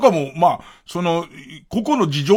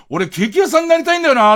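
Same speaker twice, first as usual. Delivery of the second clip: quick, high, louder mock tough-guy line; comedian playing a tough guy; 9 semitones higher, 4 dB louder, faster than usual. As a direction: pop it out like a delinquent character in a manzai bit. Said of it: "その人が漫才で出てきて".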